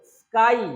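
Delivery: "स्काई" drawn out on its ending; stress on final vowel. Shown as a demonstration. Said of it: "दबाव कहाँ है?".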